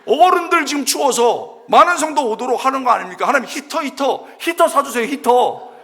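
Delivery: high, loud, insistent pleading; hammed-up prayer of protest, nagging for the goods; complaining to God. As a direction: beg and badger heaven in mock desperation. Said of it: "불평은 누구에게?".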